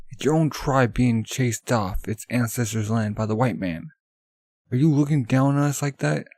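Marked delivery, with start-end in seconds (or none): 4.7-6.3 angry accusation. Acted. Tribesman confronting Sandman.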